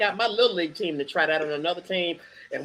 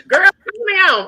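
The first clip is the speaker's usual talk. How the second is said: put-on girlfriend voice; 12 semitones higher, 8 dB louder than usual. Wife calling her friend, retold.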